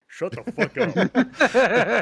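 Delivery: loud, slow, laughing shout. Acted. Ranting at the activist investor, shouting while laughing. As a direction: blast it out through a laugh.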